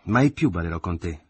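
mother refuses to dance with her son, indignant. Acted. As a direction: tell him off with wounded pride. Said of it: "ripeteva Maria Grazia indignata".

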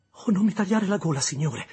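put-on high, loud, frightened child's cry; terrified plea. Little Pip begging the convict not to cut his throat: terrified plea. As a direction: beg for your life, voice jumping up. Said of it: "invocai terrorizzato".

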